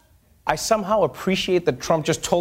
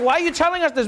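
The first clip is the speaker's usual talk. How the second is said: incredulous question; 8 semitones higher, faster than usual. Retold or imitated. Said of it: "He's like".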